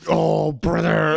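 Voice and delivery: slow, drawn-out oh brother; mock exasperated sigh. Imitating Charles giving up on them, slow and drawn out. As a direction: drag it out, fed up. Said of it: "Charles be like".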